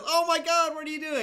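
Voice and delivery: high, loud panicked yell; a shocked kid screaming at his parents; freaking out. Retold or imitated. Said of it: "starts freaking out and says".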